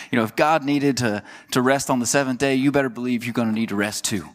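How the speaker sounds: a light Southern, Texas twang; Texas accent. Acted. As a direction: slip lightly into a Texan accent. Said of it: "that's my Texas accent for you".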